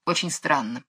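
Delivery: low, soft puzzled remark; softly puzzled, voice dropped; puzzled musing. A narrator's reading. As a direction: muse quietly to oneself. Puzzled king, then echoed.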